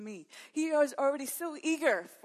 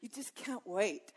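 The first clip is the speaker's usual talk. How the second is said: soft, slow, tender; 6 dB quieter, slower than usual. Real, not acted. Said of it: "You are so head over heels".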